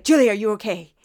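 loud, alarmed mock check-in; panicked mom. Mom calling her daughter up, mock panic. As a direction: blurt it like an overanxious mother on the phone. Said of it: "so she's panicked at all time".

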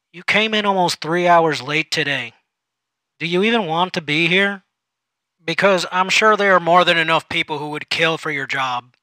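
detached. Acted. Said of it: "took on a more detached demeanor".

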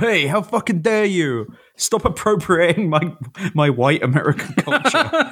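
mock American accent rant of a touchy conservative; angry neocon. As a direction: play the indignant neocon, mock-furious. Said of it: "neocon fuck get really mad".

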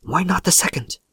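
high, insistent question; mildly feverish pleading. A narrator's reading. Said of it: "said the old woman feverishly".

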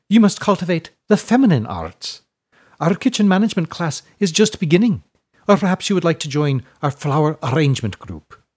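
high, loud, cooing matron; sweet matron. A narrator's reading. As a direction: coo at the child grandly. Widow voice.

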